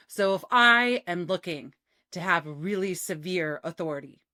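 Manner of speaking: short, commanding, heavy falls; severe authority. Shown as a demonstration. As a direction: command the room with clipped falls. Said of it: "you can hear how short my cadence is".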